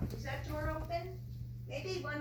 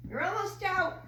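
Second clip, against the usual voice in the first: excited urging; 7 semitones higher, 5 dB louder than usual. Real, not acted. Urging bird out the door.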